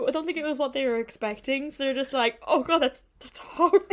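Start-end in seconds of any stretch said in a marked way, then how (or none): 2.5-3.8 loud, high imitation of appalled tourists; mock disgust. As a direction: recoil in mock horror, breaking into laughter. Acting out disappointed tourists, laughing.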